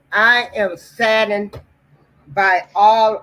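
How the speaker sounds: faint voice far from the mic; speaking away from the microphone; barely audible. Real, not acted. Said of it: "You are very low".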